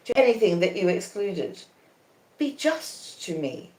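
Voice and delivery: a quietly spoken plea for fairness. A narrator's reading. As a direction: ask for justice, hushed. Estella voiced, quiet end.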